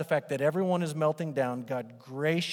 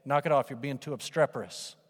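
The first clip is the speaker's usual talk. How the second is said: mock parent scold. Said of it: "you can say".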